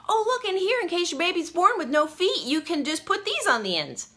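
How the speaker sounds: high, loud, mock-sweet voice; joking quote. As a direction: chirp it brightly as a tactless joke. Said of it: "and I just said".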